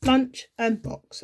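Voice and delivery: LUNCH and BOX each set apart and stressed; teacherly emphasis on each of LUNCH and BOX; split into syllables. Shown as a demonstration. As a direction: beat out LUNCH, then BOX, as two separate syllables. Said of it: "I hear the syllables".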